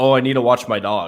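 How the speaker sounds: normal talking voice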